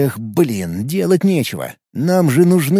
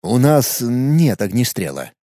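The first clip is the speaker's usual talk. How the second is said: slow, lower sheepish admission; embarrassed; 3 semitones lower, slower than usual. Acted. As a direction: admit it a bit ashamed. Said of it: "смущённо ответил я".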